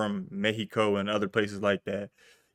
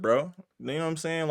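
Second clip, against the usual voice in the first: ordinary delivery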